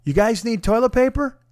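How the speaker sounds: high, floating angelic offer. Retold or imitated. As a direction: lift it up like a heavenly rescuer. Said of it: "the voice of an angel".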